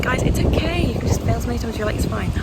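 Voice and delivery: high fast fake cheer; mock upbeat vlogger. Mocking her upbeat vlogger voice for viewers. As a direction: put on a bright fast upbeat voice. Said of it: "be like".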